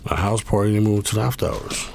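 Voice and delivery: high-pitched heated protest; indignant high-pitched pleading; defensive retort. Retold or imitated. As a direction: insist on your innocence, pitch up. Defending himself to John.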